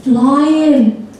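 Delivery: "Flying" drawn out in a Durham accent; broad northern English "Flying". Shown as a demonstration. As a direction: show "Flying" as a northerner says it. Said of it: "try it".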